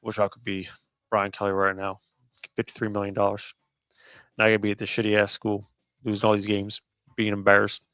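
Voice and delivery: a mild mock grumble in the coach's voice; grumpy Belichick. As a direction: mutter it like a sulky coach who wants out. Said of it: "Bill, he always grumpy. He's like".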